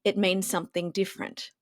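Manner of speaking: low, unhurried delivery. Shown as a demonstration. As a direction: drop the pitch and slow right down. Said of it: "if you say the same thing in a deeper tone and slower".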